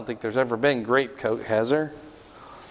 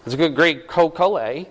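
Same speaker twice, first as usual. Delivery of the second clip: quick jumble of Canadian "eh" and Southern "Co-Cola"; playfully mix Canadian and Southern accents; brisk, muddled Canadian-Southern impression; faster than usual. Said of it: "when I start mixing them up".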